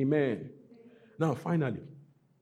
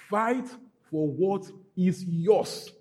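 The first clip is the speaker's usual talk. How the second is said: rousing preach; 4 semitones higher, 4 dB louder, much slower than usual. Acted. Preacher rallying the congregation.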